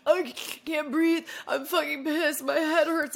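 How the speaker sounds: high, slow, whining misery; whiny sick complaint. Retold or imitated. Retelling her foul night-time sick mood.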